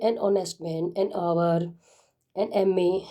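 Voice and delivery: very slow, spelling out each phrase; slow example reading. Shown as a demonstration. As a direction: dictate the examples carefully to students. Teacher reads examples slowly.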